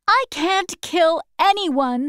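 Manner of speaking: put-on a small girl answering politely; young girl Dorothy. A narrator's reading. Dorothy refuses, near tears.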